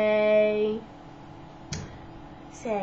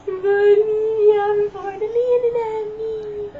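excited; 10 semitones higher, 9 dB louder than usual. Real, not acted. Parent excited with baby.

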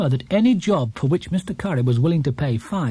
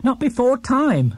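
higher, slow, scornful; scornful snort; 9 semitones higher than usual. A narrator's reading. Housekeeper scoffing at Mr Curry, slow and scornful. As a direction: dismiss it with scorn. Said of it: "snorted Missus Bird".

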